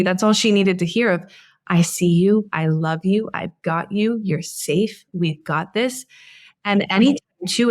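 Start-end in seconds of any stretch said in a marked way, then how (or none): 1.7-6.1 soothing voice. Retold or imitated. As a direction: reassure the little one, fading to near a murmur. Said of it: "soothing voice that I just heard you say".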